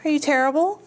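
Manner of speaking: ordinary delivery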